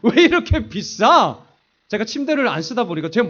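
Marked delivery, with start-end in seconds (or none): 0.0-1.4 griping at his wife over the price; angry complaint. Retold or imitated. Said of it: "제가 엄청나게 화를 냈습니다". (아내에게 가격 따지며 점점 커지는 화)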